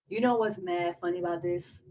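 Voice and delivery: a touch of his cadence; mock his phrase; lightly imitated Andrew; imitating Andrew. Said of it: "I just showed y'all how he really talks".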